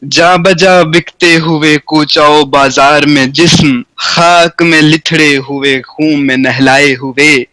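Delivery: slow, stately verse reading; slow mushaira-style recitation; slow poetry recitation. Shown as a demonstration. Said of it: "پڑھت کے انداز میں آپ سنیے".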